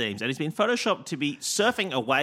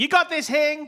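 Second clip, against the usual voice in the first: very high, cheering, heckling shout; 13 semitones higher, 4 dB louder than usual. Retelling an audience member's heckle during a trial show: imitating someone yelling. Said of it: "They very helpfully yelled out".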